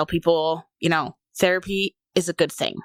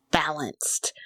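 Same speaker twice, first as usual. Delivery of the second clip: whispered; 3 semitones lower, 5 dB quieter than usual. Real, not acted. Relief after finding right medication.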